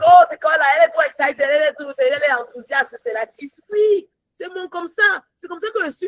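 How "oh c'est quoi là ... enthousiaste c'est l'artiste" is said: raised, mocking voice of disapproving churchgoers; mocking critics. Mimicking church people who mock her excitement, raised and scornful. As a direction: sneer at her enthusiasm. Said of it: "les gens vont dire".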